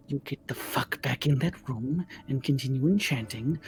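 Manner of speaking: low-key, controlled threat; lightly menacing hag. Acted. Hag ordering the other back to work, understated menace.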